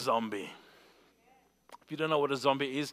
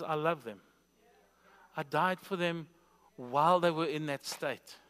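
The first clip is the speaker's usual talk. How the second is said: tender divine answer. Acted. Voices God after loud rebuke.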